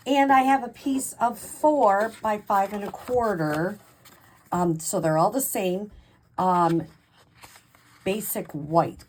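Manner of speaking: halting, stumbling over words; tripping on the words, restarting; stuttering. Real, not acted. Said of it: "Golly, I'm stuttering here".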